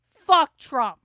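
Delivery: loud furious curse; angry shout. Real, not acted. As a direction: bark it out in real anger. Learns Trump admitted he lost.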